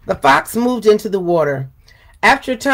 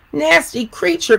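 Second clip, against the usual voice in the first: cow crying out; 6 semitones higher than usual. Acted. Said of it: "cried the cow".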